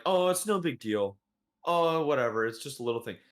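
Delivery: airy mock dismissal that drops at the end; dismissive imitation. Imitating parents brushing off misbehaviour.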